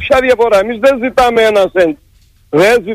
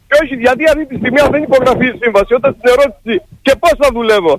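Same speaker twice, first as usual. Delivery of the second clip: higher-pitched, exasperated outburst; real indignation; 3 semitones higher than usual. Real, not acted. Union secretary protesting unpaid work on air, indignant. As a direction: demand answers, emotionally overwrought. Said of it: "Αγανάκτηση, αγανάκτηση".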